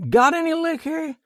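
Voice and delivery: put-on high, loud drunk asking for liquor; drunken demand. A narrator's reading. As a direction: demand a drink, sloppily. Drunk asks again.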